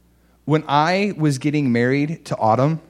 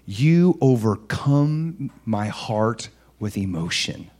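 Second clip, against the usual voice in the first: slow, lower, deliberate declaration; Jesus speaking lovingly; 4 semitones lower, 4 dB quieter, slower than usual. Acted. Preacher voicing Jesus looking at you, slow and heartfelt. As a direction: let each phrase land slowly. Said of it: "Jesus looking at you and saying".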